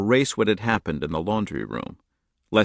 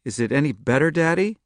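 put-on raised child voice, worried; higher, louder child asking anxiously; anxious little girl; 8 semitones higher, 4 dB louder than usual. A narrator's reading. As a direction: ask like a scared young daughter. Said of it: "she asked anxiously".

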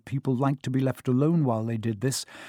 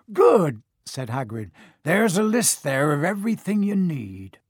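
lightly voiced big, bluff giant; a gruff, friendly giant, lightly done; Hagrid voice.

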